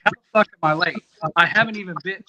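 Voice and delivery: loud, fast retold outburst; pissed-off protest. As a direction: argue back at the rep, reenacting it. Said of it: "and I was pissed".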